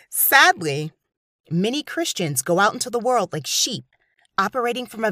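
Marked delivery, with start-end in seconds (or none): none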